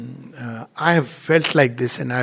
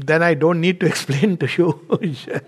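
laughing through words. Real, not acted. Laughs while quoting the reply.

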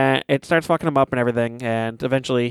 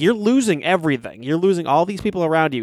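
pleading mock yell at no more volume; half-voiced exasperated scream; retold scream; 3 semitones higher than usual. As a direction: imitate someone yelling at himself. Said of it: "He's screaming at himself".

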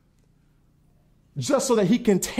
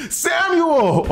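higher, louder call of the name; girl's voice; 10 semitones higher, 5 dB louder than usual. Acted. Preacher mocking a caller's voice: high, girlish call. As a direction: call it out like a girl. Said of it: "you got a girl's voice".

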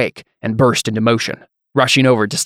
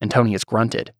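plain reading voice

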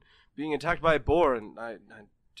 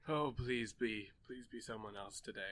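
muttered plea; 4 semitones lower, 12 dB quieter than usual. Acted. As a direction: mutter it under your breath. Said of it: "muttered plea".

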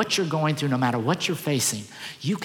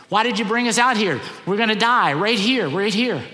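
loud, higher frightened complaint; a mob sure they are about to die; panicked crowd; 5 semitones higher, 4 dB louder than usual. Retold or imitated. Israelites cornered at the Red Sea cry out to Moses, loud panicked complaint. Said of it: "they're all going crazy".

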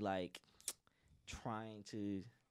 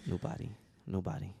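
sexy voice; 3 semitones lower than usual. Pretend. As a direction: drop it low and seductive. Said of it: "you sound kinda sexy".

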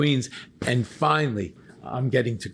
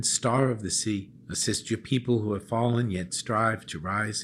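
prayer. Acted. Leads the Marian prayer.

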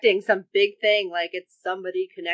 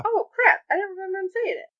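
1 dismayed wail; 13 semitones higher, faster than usual. Real, not acted. Realizing a missed detail, dismayed.

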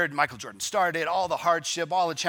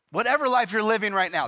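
laughing through the words, higher; 8 semitones higher, 4 dB louder, faster than usual. Real, not acted. Pastor rereading the quote to the congregation, laughing.

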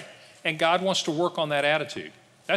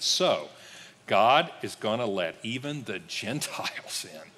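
reluctant grudging; 3 semitones lower than usual. Retold or imitated. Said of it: "you gotta hear this the way they said it".

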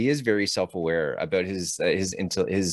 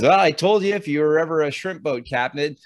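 Lieutenant Dan quote; 5 semitones higher than usual. Retold or imitated. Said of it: "Lieutenant Dan says".

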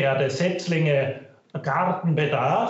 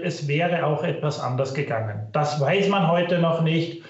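low quality stream. Real, not acted. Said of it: "Bitte entschuldigen Sie die Tonqualität".

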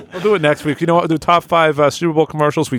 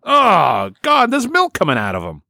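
mock shock; 5 semitones higher than usual. Improv discovery of strange part.

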